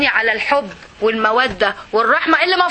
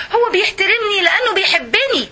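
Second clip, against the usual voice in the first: laughing; 6 semitones higher than usual. Real, not acted. Laughing while explaining.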